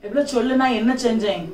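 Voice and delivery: normal talking voice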